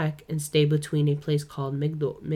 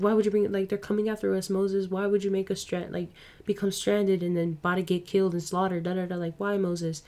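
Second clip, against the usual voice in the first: higher, whiny imitation of a frightened crowd; mock panicked complaint; 4 semitones higher than usual. Podcaster imitating Israelites blaming Moses as the army comes, mock panic. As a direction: plead in mild mock panic. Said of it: "They cry, and they're like".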